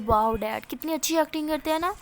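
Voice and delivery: sarcastic, laughing through the words; mocking laughter. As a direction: laugh at the father while talking. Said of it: "میرا ہنسنے لگ جاتی ہے".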